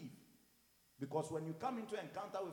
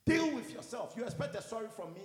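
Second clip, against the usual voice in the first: loud, high start, scornful dismissal; retold anger; 4 semitones higher, 5 dB louder than usual. Pastor refusing to beg a brother, retold angry dismissal. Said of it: "I got so angry".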